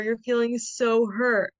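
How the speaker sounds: slow naming feeling. Shown as a demonstration.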